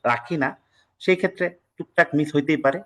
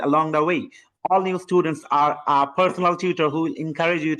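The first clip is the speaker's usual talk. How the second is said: skipping two words; much slower than usual. Shown as a demonstration. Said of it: "Allocated আর achieve আমি উচ্চারণ না করে".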